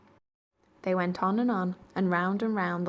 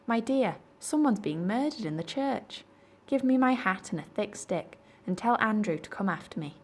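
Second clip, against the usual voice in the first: alarmed vicar; 4 semitones higher than usual. Acted. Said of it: "Goodness me he said".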